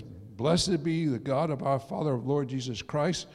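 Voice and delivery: scripture reading. Acted. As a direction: read it out firmly, measured, phrase by phrase. Reads scripture aloud to congregation.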